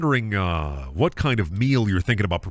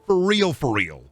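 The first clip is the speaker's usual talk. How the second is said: mock excited self-talk. Shopper gushing to himself about hamburger helper, mock excited. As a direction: gush over hamburger helper. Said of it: "you say to yourself".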